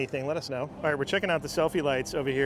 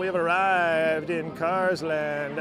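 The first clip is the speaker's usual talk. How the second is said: announcer voice. Pretend. Mock arrival announcement.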